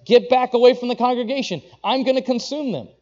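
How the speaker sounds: booming divine warning; stern command. Acted. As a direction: order them back in divine anger. God threatening the congregation.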